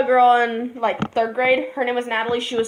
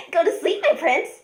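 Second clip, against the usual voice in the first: lightly voiced creepy killer girl; a hint of a sweet, sinister lullaby; Nina the Killer voice; 5 semitones higher than usual. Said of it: "gonna do a random Nina the Killer impression".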